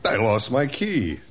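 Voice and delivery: drawn-out "I lost my key"; slow, emphatic repeat. Acted. Member repeats his excuse to a doubter, slowly and emphatically. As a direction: spell it out slowly for the listener.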